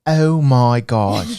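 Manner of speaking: very slow, drawn-out exclamation; put-on guess at a viewer's voice, stretched right out; pretend Cynthia. Host pretending to be a viewer he never heard, put-on voice. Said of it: "I like to pretend".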